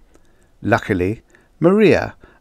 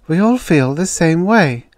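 higher, louder voice of fellow feeling; acted sympathy, raised voice; sympathetic; 10 semitones higher, 5 dB louder than usual. A narrator's reading. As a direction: commiserate with a friend, pitched up. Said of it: "said sympathetically".

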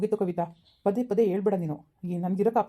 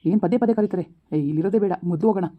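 louder, exasperated ranting; angry husband; 4 dB louder than usual. Acted. Husband yells at his wife that he is leaving, angry. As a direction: lose your temper and insist on going.

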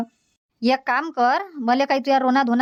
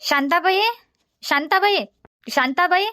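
calling out; 4 semitones higher than usual. Acted. Mother calls to neighbour Shantabai from her door, calling out. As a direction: call her name across the yard.

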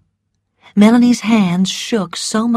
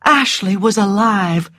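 restrained joy, letting it sink in. A narrator's reading. Narrator shares Scarlett's relief at the news, restrained joy. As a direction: narrate with a touch of happy relief.

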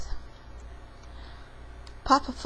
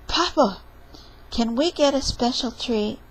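put-on higher, eager child voice; little kid voice; 6 semitones higher than usual. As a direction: ask like a hopeful little kid. Child character's lines.

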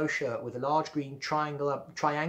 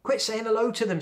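annoyed order; 9 semitones higher, 5 dB louder than usual. Acted.

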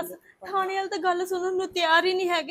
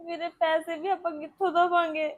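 tearful. Acted. Weeping about paying the police.

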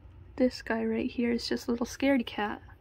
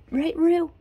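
high, louder pet cooing; 6 semitones higher, 7 dB louder than usual. Real, not acted. Owner asking her rat for agreement, in loud baby talk. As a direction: coo the pet's name.

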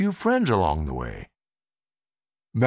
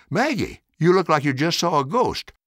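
Jake's voice; 7 semitones higher than usual. A narrator's reading. Jake teasing Maggie.

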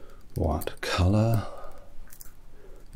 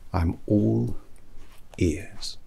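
whisper; 3 semitones higher, much slower than usual. Acted. Hatter invites the order.

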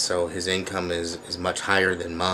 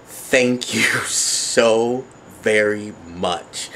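slow thanks broken by a laugh; giggly slow thank you; much slower than usual. Real, not acted.

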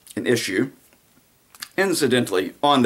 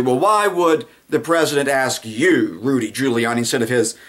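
hammed-up indignant host; mock outraged interviewer; 2 semitones higher than usual. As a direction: press harder with every phrase. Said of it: "the narrative turns to".

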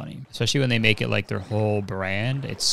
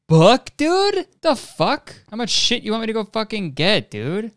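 much higher and louder, fed-up yelling; exasperated outburst; 11 semitones higher, 5 dB louder than usual. Real, not acted. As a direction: blow up at the long recipe. Exasperated by crafting recipe.

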